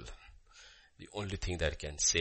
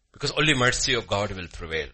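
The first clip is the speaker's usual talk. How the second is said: louder, forceful preaching; emphatic declaration; 6 dB louder than usual. Real, not acted. Preacher tells congregation what will prevail, emphatic declaration. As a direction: declare it firmly to the room.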